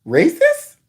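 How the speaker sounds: "Racist" pitched high and rising; questioning. Retold or imitated. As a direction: mimic a puzzled question on "Racist". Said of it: "said it like it was a question".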